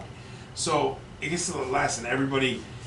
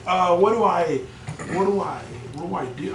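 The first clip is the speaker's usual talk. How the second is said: raised, loud, mildly hammed-up helplessness; flustered retelling; 7 semitones higher, 6 dB louder than usual. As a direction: act out being at a loss, pitched up. Acts out own flustered reaction.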